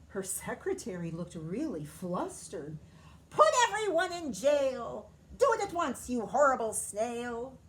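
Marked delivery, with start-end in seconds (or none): 3.3-7.6 high, loud angry command; furious order. A narrator's reading. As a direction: scold the snail with royal fury. Queen orders secretary, furious.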